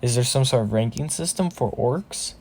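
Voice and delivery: soft, puzzled inner voice; hushed wondering aside; thinking to himself. Acted. Deku puzzling over orc ranks, in a quiet thought voice. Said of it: "Deku thinks".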